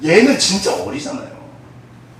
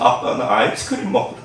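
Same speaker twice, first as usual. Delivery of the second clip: put-on whimpering child plea; 3 semitones lower, 4 dB quieter than usual. Orphan child pleads at bracelet.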